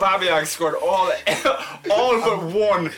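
slow, high-pitched mock Irish accent. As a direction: read it out in a loud, lilting Irish accent, on the edge of laughing. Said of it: "I'll read it in an Irish accent".

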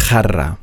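Jarra opening with the rough ch of German "auch". Shown as a demonstration. Teacher demonstrating the Spanish J, Jarra with back CH. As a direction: say Jarra as "charra". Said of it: "ausgesprochen wie ein C H".

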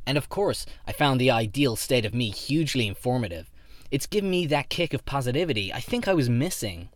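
earnest self-help fan; eager fan voice. Acted. Henry the fan speaking.

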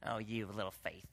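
soft, low disdainful "Oh, you little faith"; scornful scolding. Retold or imitated. How people misread Jesus, scolding softly. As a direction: sneer it down at them. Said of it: "read it as like".

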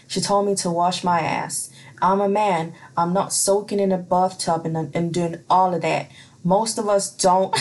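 accent slipping into a funky American; wobbly American-ish accent, breaking into a laugh at the end; attempted American accent. Real, not acted. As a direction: slowly drift into a bad American accent. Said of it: "my accent slowly turned into some weird, funky ass, trying to be a American".

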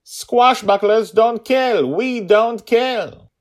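slow, high, loud protest; defiant shout. A narrator's reading. Girl refuses her father's order to kill, slow loud shout. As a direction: plant her feet and refuse.

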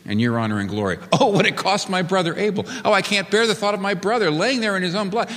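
pleading lament for the wronged brother; imagined remorse for Abel. Pretend. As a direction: mourn the real cost, voice lifted and aching. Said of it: "Notice he is not saying".

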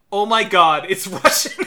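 retold realisation that cracks up into a laugh; amused disbelief. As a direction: exclaim it, breaking into laughter. Retelling own realisation, breaking into laughter.

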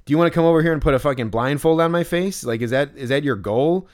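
imitated sarcastic retort. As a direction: snap back sarcastically. Imagined angry retort.

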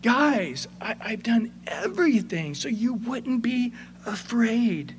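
begging, dropping into a whisper; pleading Joseph. Acted. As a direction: plead with the brothers, breaking into a whisper. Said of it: "I'm giving an inflection in his voice".

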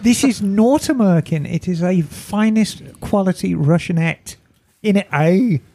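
a hint of a posh drag persona; breathy vintage purr; lightly voiced Miss Emma. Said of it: "it's Miss Emma".

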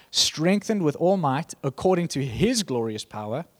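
firm, ringing scripture read; declaring the Bible passage, measured and strong. Acted. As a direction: proclaim the verses to the church. Reads Colossians aloud.

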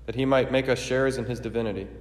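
formal, ringing liturgical proclamation; solemn preface prayer. Acted.

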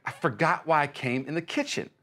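baffled man in the kitchen; confused self-quote. Retold or imitated. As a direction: act out forgetting why you walked in. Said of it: "I'm like".

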